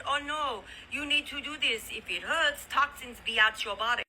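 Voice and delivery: amateur mimicry of a Chinese woman's English; imitated Chinese accent. Southern lady retelling a Chinese lady's health warning, imitated Chinese accent. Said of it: "trying to talk like this Chinese lady".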